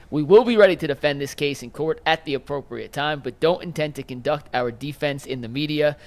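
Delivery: measured, deliberate reading of a legal statement; formal statement read. Acted. Host reading attorney's statement to colleagues, formal read. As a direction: read it out as an official quote.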